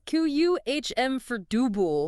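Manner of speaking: slow "Q U H M for dubu", extra syllable; accepted variant. Shown as a demonstration. Host echoing the version, slow pronunciation demo. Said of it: "and you'll hear".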